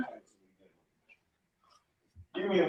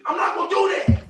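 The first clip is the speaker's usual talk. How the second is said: real angry shout; 8 semitones higher, 4 dB louder than usual. Real, not acted. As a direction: yell it back, higher and louder. Heated argument over rent money.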